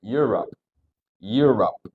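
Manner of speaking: EUROPE shut off on the P; measured teaching EUROPE with a stopped P; closed final p. Shown as a demonstration. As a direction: close the lips on the end of EUROPE. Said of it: "Jadi ditutupin".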